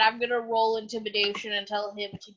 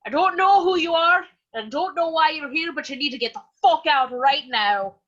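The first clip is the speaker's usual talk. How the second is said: loud, menacing warning to a stranger; angry threat; 4 semitones higher, 5 dB louder than usual. Acted. Warrior threatens the armored knight: loud angry warning. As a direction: raise the voice and threaten him off, louder at the start.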